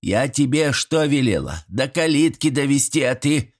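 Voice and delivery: high granny reproach, stress on что; granny scolding. Acted. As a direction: scold the boy for leaving the guest.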